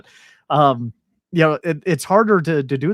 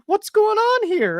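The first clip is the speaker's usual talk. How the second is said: high, slow hammed-up bewilderment; baffled mock reaction; 3 dB louder, slower than usual. The speaker reacting to Nikita's normal voice, high slow mock bewilderment. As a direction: drag it out like a man who can't believe it.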